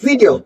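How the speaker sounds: "वीडियो" with a short first "vi"; short sound. Shown as a demonstration. Teacher repeating for learners, short-vowelled "वीडियो". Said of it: "short sound आएगा".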